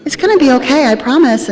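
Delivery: light, sing-song imitation of serene Sheila; peaceful Sheila. Teller imitating her serene fellow inmate, light sing-song. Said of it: "always just so peaceful and always very happy".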